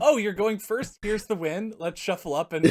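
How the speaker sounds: high, loud, playful imitation of a player; mock player chatter. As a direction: act out an eager player, hammed-up. Acts out a player's quick game.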